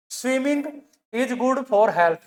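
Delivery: drawn-out dictation of the sentence; slow dictation. Shown as a demonstration. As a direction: spell it out slowly. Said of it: "dictating example sentence".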